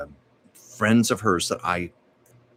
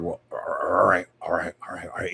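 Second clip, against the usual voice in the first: caught off guard. Retold or imitated. Mother on the phone caught off guard, flustered. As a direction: imitate a mother thrown by the news. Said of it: "kinda caught her mother off guard".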